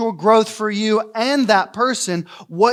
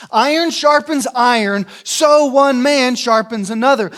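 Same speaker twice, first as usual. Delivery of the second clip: preached louder; 4 semitones higher, 4 dB louder than usual. Shown as a demonstration.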